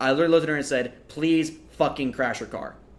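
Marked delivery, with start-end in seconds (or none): none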